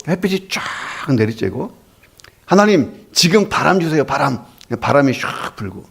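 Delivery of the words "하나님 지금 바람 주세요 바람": acted-out eager request to God; mildly thrilled farmers asking God; excited prayer. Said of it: "농부들이 신나서 이제 기도하는 거예요".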